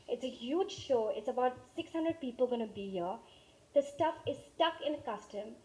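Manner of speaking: put-on sit the kids down gently; calm talk. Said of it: "I just calmed down".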